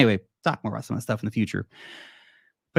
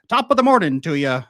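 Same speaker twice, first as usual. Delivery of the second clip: higher, louder mock British greeting; super British accent; 5 semitones higher, 5 dB louder than usual. Mimicking actors playing agents in Valkyrie, exaggerated British accent. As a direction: ham up a cheery British accent. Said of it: "super British or super American accents".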